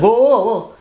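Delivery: high-pitched, urgent stop, acted out; startled halt. Daughter stopping the student as he walks off, acted startled. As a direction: imitate calling someone back in alarm. Daughter stops him as he leaves.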